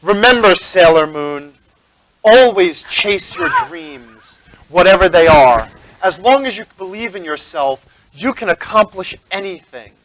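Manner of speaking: slow, measured inspirational speech; heroic masked mentor. Acted. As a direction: deliver noble advice with drawn-out, rising emphasis.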